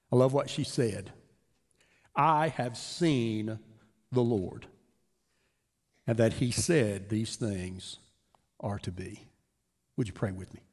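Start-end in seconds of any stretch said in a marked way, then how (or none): 2.1-9.3 savored quote. Acted. Savoring Mary's words, slow.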